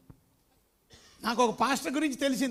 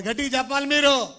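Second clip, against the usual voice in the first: urging loudly; 7 dB louder than usual. Real, not acted. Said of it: "కొంచెం గట్టిగా చెప్పాలి మీరు".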